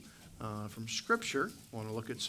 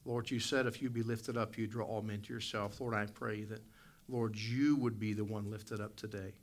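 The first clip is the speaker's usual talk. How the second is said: prayer voice. Acted. Leads the congregation in prayer.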